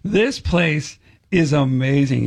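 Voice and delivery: drawn-out, weighted wow of admiration; retold awe at an office; impressed exclamation. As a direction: stretch each word in slow amazement. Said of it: "I don't get really excited about".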